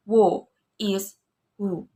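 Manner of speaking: who is who as a question; rising question on who. Shown as a demonstration. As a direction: ask who is who with a rising tune. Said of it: "rising tone".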